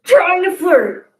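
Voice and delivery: slow, dramatic trailer narrator; epic movie trailer voice. Acted. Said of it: "Epic Movie Trailer Boys".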